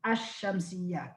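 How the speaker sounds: الشمسية with no l, a doubled sh instead; assimilated lam. Shown as a demonstration. Teacher telling students what they must say, assimilated lam. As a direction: lean on the long sh in الشمسية. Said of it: "You must say الشمسية".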